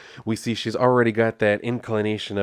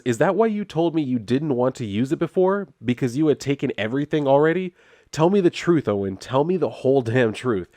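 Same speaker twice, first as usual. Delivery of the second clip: higher-pitched mock confrontation; acted accusation; 5 semitones higher than usual. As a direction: demand the truth, mildly hammed-up. Retold wife confronting husband.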